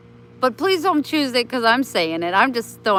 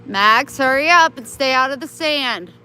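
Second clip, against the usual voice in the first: calling the dog; 4 semitones higher, 6 dB louder than usual. Real, not acted. Yelling at dog outside.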